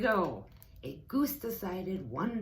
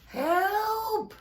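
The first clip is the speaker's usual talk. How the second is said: high, loud panicked goose cry; silly goose shrieking help; 7 dB louder than usual. A narrator's reading. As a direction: squawk for help like a frightened goose. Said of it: "cried the goose".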